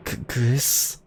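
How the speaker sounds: put-on a scared girl losing her nerve; frightened girl. Noelle's lines, frightened.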